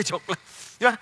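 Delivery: usual speaking voice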